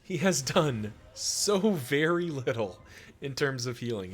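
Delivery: drawn-out frustrated whine; exasperated complaint. Real, not acted. Complaining about bad luck.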